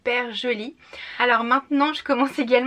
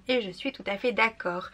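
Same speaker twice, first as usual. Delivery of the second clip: normal talking voice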